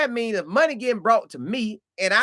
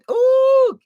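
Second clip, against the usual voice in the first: ooh; 9 dB louder than usual. Real, not acted. Reacting to a sad comment.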